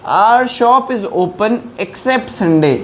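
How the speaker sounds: reads the English example very slowly; slow dictation. Shown as a demonstration. Teacher to Hindi-speaking learners, slow dictation pace. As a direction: spell out each word for the students.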